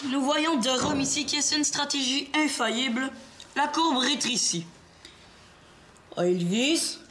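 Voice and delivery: mock sports commentary. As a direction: call the game like a play-by-play. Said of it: "pourrais-tu baisser le ton un peu".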